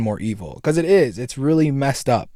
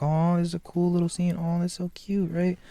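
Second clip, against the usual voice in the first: naive first viewer; 6 semitones higher than usual. Retold or imitated. First watching the movie, higher naive gushing. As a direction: gush it like it's adorable. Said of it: "I'm like".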